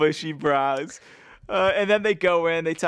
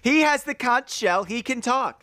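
mock ruling; 6 semitones higher than usual. Playing a group keeping order.

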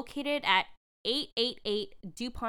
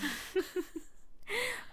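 breathy laugh; 10 semitones higher, 8 dB quieter than usual. Real, not acted. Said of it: "putting on my com-, commercial voice here".

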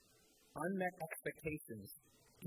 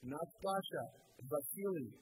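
shaky English; slower than usual. Retold or imitated. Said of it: "in a just as shaky English voice".

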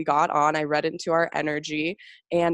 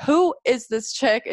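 amazed; 7 semitones higher, 3 dB louder than usual. Retold or imitated. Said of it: "I was like".

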